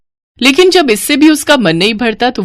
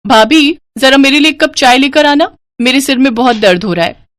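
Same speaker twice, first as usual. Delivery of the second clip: lightly voiced, high-pitched young sister-in-law; demanding sister-in-law; 5 semitones higher than usual. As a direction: call out for tea in a high, entitled voice. (हुक्म चलाती ननद की ऊँची आवाज़)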